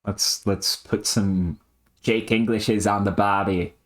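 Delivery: slow warm-up in an Aussie accent; put-on Strayan, finding the voice; Australian accent. Shown as a demonstration. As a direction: try out a stock Australian phrase. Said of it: "Strayan, Strayan, come on".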